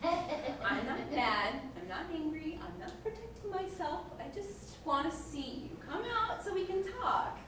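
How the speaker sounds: sweetly insisting there's no anger; placating. Acted. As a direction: coax them out while insisting you're calm. Acted parent insists she isn't mad.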